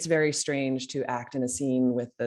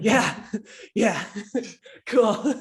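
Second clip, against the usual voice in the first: laughing; 8 semitones higher, 5 dB louder, slower than usual. Retold or imitated. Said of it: "I was like".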